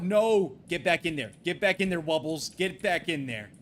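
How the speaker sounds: loud, pleading orders to a runaway pet; urgent commands. Real, not acted. Streamer yelling at Wubbles to get back, urgent.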